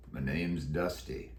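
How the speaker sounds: low, slow cowboy drawl; a croaky old Western cowboy; deep croaky voice. Acted. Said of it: "He answered in a deep, croaky voice".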